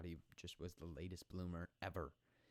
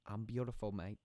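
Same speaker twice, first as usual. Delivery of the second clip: bad Australian accent; 3 semitones higher, 6 dB louder than usual. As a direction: put on a shaky attempt at an Australian accent. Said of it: "the Australian accent is not working out well".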